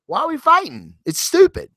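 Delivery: high, pleading mock Terrax; whiny Terrax. Terrax urging Drax to quit fighting, high pleading. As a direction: plead like a fed-up giant.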